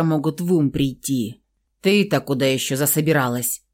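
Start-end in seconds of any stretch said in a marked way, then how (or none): 1.8-3.6 stern question. Acted. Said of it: "строго спросил хмурый Михаил".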